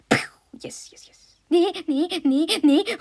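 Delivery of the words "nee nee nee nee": protest. Real, not acted. Protest in spel.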